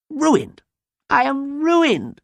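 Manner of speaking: very high, loud, drawn-out wail; anguished cry. A narrator's reading. Farmer laments his ruined farm, high theatrical cry. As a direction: wail like a man undone. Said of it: "cried Fendleton".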